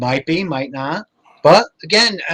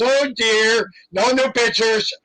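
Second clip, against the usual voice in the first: imitating Lorraine; 6 semitones higher, slower than usual. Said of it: "Then Lorraine goes".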